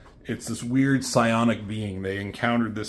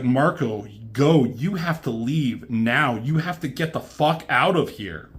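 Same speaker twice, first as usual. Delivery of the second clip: urgent warning; 3 semitones higher, 4 dB louder than usual. Retold or imitated. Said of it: "She's like".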